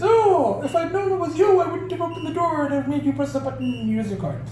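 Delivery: high, lightly voiced smug neighbor; a hint of a sneering know-it-all; mock snooty neighbor. Mimicking the smug neighbor at the door, high mock snootiness. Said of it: "and then he sees me and he goes".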